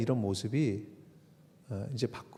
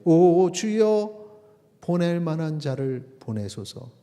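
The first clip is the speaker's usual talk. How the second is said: drawn-out, raised cry to the Lord, then easing; pleading Moses; 5 semitones higher, 6 dB louder, slower than usual. Acted. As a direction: draw out the plea like Moses. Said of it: "모세가 이르되".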